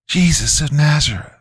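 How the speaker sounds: high, raspy demon voice; squealed demonic answer; mocking demon. A narrator's reading. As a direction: taunt with a false name, pitched high. Demon mocks with false name.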